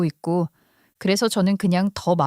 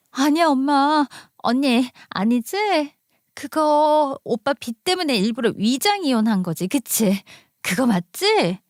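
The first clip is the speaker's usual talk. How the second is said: lightly voiced sister-in-law, raised pitch; 시누이의 다급한 확인; 4 semitones higher than usual. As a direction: plead for confirmation. 시누이가 시어머니 말을 부정하며 확인. (시누이가 살짝 높은 목소리로 매달리듯 확인)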